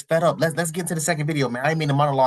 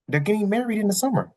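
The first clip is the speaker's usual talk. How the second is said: "They're getting married in the summer" lifted higher, more excited; excited repeat; 5 semitones higher than usual. Shown as a demonstration. Repeating the wedding news to viewers, more excited. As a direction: say it again with more delight. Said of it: "repeated for emphasis".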